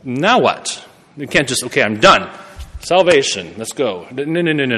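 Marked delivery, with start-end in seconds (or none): 1.6-4.1 rattled off in a light mock-casual tone. Preacher mocking a too-easy faith, light and mocking. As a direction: toss it off like faith is a done deal. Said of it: "I kinda say that kind of in a mocking way".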